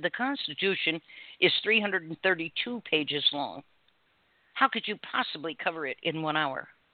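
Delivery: normal talking voice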